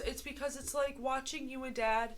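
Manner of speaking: tearing up. Real, not acted. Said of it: "she is literally tearing up".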